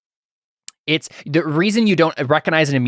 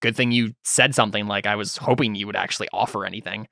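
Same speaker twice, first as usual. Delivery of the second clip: sarcastic; 5 semitones lower, 5 dB quieter than usual. Acted. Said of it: "like, dismissively".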